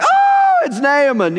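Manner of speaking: high, gushing fan squeal; excited. Acted. Servant spots the famous visitor at the house, excited. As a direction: squeal with starstruck excitement, drawing out the first word. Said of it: "he's excited".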